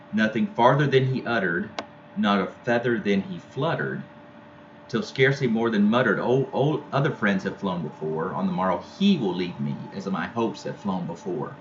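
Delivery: recited verse, lifted a little at the start; poem reading. Acted. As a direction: read the stanza to the class. Teacher reads poem aloud.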